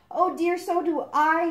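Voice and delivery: mean it, truly worried; genuine concern. A narrator's reading. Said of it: "said Bentley with genuine concern".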